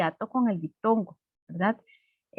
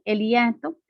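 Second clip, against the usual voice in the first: slow reading of title; slower than usual. Shown as a demonstration. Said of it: "es la separación de dos vocales".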